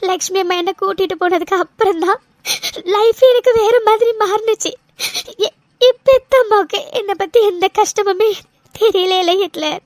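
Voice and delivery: steady tearful voice, sniffling between phrases; a light weepy telling of missing her birth mother; crying. Acted. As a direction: keep the tears under every line. Cries through her story.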